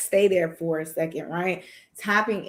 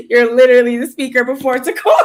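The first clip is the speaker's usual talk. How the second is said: louder, faster, high-energy hype; excited; 5 semitones higher, 10 dB louder, faster than usual. Real, not acted. Host hyping guest as the opening speaker, excited and loud. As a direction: gush about the big news, voice climbing.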